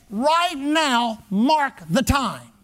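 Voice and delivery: slow, deliberate altar-call command with weight on MARK; emphatic revivalist. Retold or imitated. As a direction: MARK THE TIME drawn out slowly, each word set apart. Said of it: "he'd emphasize it over and over".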